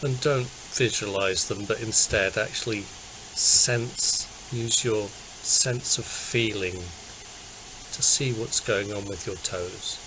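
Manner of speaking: calm, unhurried body-scan guidance; guided meditation. Acted. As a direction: guide listeners gently into relaxing, with long pauses.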